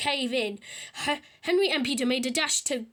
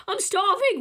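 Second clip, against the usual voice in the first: a higher, louder hungry wail; 7 semitones higher, 6 dB louder than usual. A narrator's reading. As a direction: whine it like a hungry child. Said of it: "wailed Tori Day".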